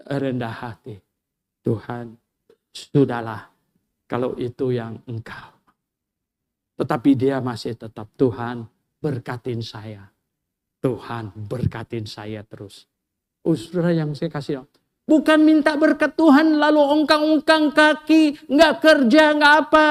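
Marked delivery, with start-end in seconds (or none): 1.6-12.9 humble prayer. Retold or imitated. Yakub praying humbly. 15.0-19.9 high, loud rebuke; fiery preaching. Acted. Preacher rebuking lazy believers, high and loud.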